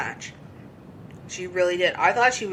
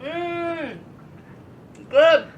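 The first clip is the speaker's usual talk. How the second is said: gleeful good; 10 semitones higher, 5 dB louder than usual. Real, not acted. Gloating at Michael Cole's elimination.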